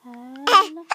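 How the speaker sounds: loud laughing greeting; laughing hello. Real, not acted.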